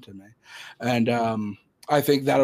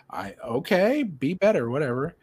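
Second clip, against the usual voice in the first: raised-pitch puzzled brush-off; mildly dismissive; 4 semitones higher than usual. Retold or imitated. Employee reacting to the supervisor's remark, mildly dismissive. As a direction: shrug it off, a touch baffled.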